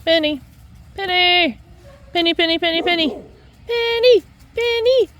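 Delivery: loud call across the yard. Real, not acted. Owner calls her dog repeatedly, loud call. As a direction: shout the dog's name to bring her.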